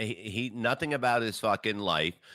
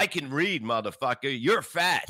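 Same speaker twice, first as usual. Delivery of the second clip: angry retort; 4 semitones higher, 4 dB louder than usual. Acted. Angry retort to mockery about reading.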